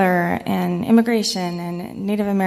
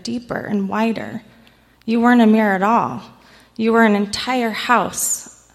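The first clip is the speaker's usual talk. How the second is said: earnest, heartfelt letter read aloud; reading a love letter. Acted. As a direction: read it like a tender confession to a book. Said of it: "so I'm gonna read the love letter".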